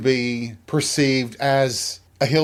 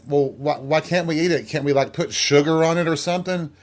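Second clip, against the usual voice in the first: higher-pitched pleading, quickening at the end; imitated kid bargaining for a treat; child's protest; 3 semitones higher than usual. Child pleading with dad over watermelon, protesting.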